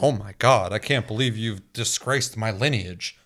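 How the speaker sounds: slow, hammed-up wounded aristocrat; mock offended. Host parodies an offended person, slow and hammed-up. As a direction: ham up outrage over a mispronounced name. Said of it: "I'm never like".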